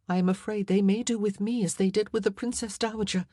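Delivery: lightly voiced anxious queen. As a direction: confide a fear to your ladies.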